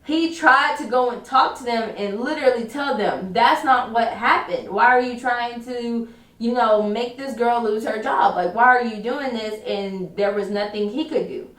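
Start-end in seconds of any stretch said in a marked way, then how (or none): 3.3-9.5 mild mock indignation, slowing at first; retold anger. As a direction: imitate an indignant protest, lightly. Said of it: "He was so mad".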